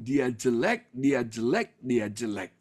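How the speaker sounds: low, repeated glum refrain; imitated self-disparagement. Reporting the boy's negative self-talk. (menirukan keluhan minder yang lesu)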